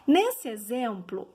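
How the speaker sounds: normal talking voice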